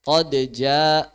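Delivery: "Qad jaa" with the d sounded and bounced; izhar. Shown as a demonstration. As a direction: release the d of "Qad" before "jaa". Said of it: "qad jaa izhar ya". ("Qad jaa" dengan d jelas dipantulkan)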